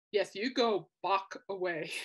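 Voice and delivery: slow, savoring "Bach away"; appreciative. Retold or imitated. Music people enjoying the pun, slow and savoring. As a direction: relish the pun slowly. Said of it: "we're just like".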